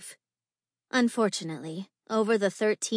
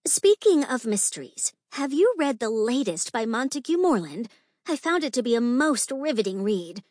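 lightly voiced gushing lady, higher; tittering society lady; 4 semitones higher, 4 dB louder than usual. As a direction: chat up the gentleman in a higher ladylike voice. Lady in princess costume chats on.

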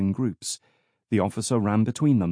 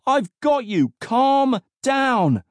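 high, loud, urgent calls; shouting; 5 dB louder, slower than usual. A narrator's reading. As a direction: yell to get through to him. Officer shouting to subdue struggling boy.

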